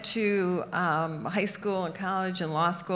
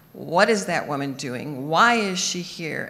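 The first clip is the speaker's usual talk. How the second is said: general yelling; 5 dB louder than usual. Retold or imitated. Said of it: "hear the general yell".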